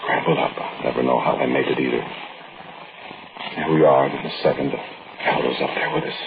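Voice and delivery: story narration. A narrator's reading.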